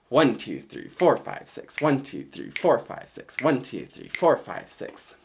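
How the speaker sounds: one and four pushed, six fading to breath; six eight count, strong one and four. Shown as a demonstration. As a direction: rock it in two groups of three. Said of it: "three eighth notes per dotted quarter note".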